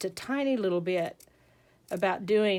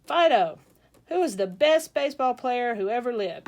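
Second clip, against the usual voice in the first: loud, animated prompt to a dog; raised, showy voice for the clincher; quizzing the dog; 3 semitones higher, 6 dB louder than usual. Acted. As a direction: act out an owner's big final question. Owner quizzing his dog.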